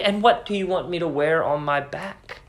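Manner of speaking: quiet, impatient retort; wife snapping back at husband about her clothes, impatient. A narrator's reading. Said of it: "she said impatiently".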